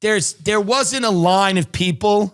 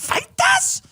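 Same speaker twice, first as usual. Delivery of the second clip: "Feitas" squeaked much higher in a mock South African accent, rising. Shown as a demonstration. Podcaster mocking the South African pronunciation of "Feitas", squealing high. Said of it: "you wanna talk about accents that are horrible".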